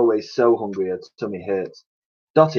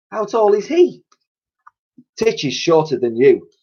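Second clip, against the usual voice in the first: put-on higher cockney cleaning lady and girl; character voices; 7 semitones higher than usual. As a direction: chat between kind cleaner and orphan. Dialogue Dotty and Elsie.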